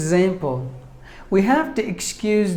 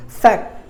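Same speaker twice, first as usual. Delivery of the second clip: "Fect" punched as the stressed syllable; 3 semitones higher than usual. Shown as a demonstration. Teacher showing which syllable takes stress, "Fect" emphasised. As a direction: put the weight on "Fect", then a short break. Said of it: "should be given more volume".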